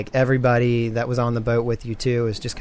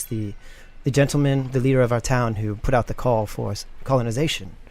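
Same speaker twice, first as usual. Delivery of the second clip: lightly voiced sheriff. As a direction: play the sorry town sheriff, a little formal.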